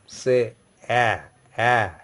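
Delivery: "a" as a flattened open eh, lips spread; flattened vowel. Shown as a demonstration. French teacher demonstrating grave E to students, flattened vowel. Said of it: "more flattened pronunciation".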